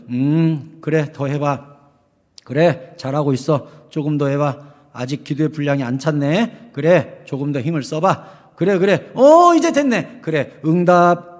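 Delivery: mock condescending heavenly voice; aloof God mock. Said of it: "이러는 줄 알아요".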